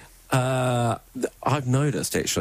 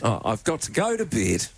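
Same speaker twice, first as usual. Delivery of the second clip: Kiwi accent. Shown as a demonstration. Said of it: "say again".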